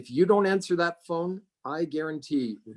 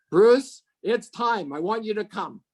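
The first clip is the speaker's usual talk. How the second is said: retold eager announcement; 7 semitones higher, 5 dB louder than usual. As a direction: call the name out loud and high, then ease down. Retold phone call announcing she's ready.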